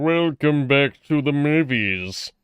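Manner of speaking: lightly voiced villain announcer; hammy villain host voice; Cell voice. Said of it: "Why are you doing your Cell voice?".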